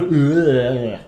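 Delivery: drawn-out imitated Dutch "ugh"; Dutch throat noise. Shown as a demonstration. Streamer explaining a Dutch accent, imitated throat noise. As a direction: make a long mock-Dutch throaty sound. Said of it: "how to do a Dutch accent".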